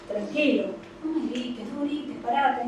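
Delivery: acted calm request. Calm version of don't shout.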